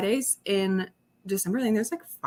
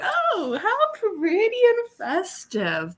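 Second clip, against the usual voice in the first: delighted gasp; 12 semitones higher, much slower than usual. Retold or imitated. Marvelling at the festive street lights.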